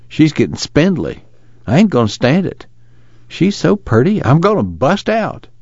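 worried father in a lifted rural voice; desperate Jewel. Acted. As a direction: stretch the key words, pitch climbing with worry.

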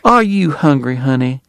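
high, solicitous Southern lady; doctor's wife. A narrator's reading. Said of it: "his wife asked John Henry".

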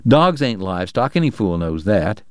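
a hint of a gruff old-timer sneering; Chalky, scornful. Chalky to the mayor, lightly scornful gruff voice.

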